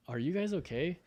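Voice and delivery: imitating the surgeon. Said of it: "surgery was fantastic".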